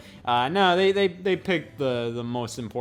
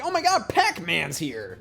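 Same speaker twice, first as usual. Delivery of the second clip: drawn-out, higher-pitched gushing; mock excitement; 4 semitones higher than usual. Imitating a shopper spotting Pac-Man on the box, mock excitement. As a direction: imitate an easily thrilled buyer.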